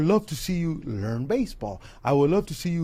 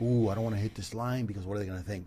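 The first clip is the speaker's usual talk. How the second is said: mock timid rapper impression; 8 semitones lower, 10 dB quieter than usual. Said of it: "a rapper being like".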